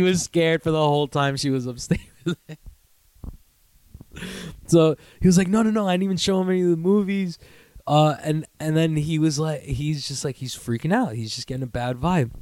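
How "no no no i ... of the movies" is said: fast, high, laughing denial; dad insisting he showed no movies; defensive dad. Retold or imitated. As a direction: rush out the denial, amused. Dad denies quickly.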